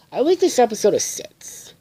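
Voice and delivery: high hammed-up verdict voice; announcer delivery. Reviewer announcing his rating, high hammed-up announcer. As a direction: declare the score like a show host. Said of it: "announces his rating".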